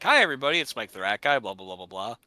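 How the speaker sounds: hammed-up streamer hello; YouTuber intro voice. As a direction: parody a YouTuber greeting. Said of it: "in which case it's like".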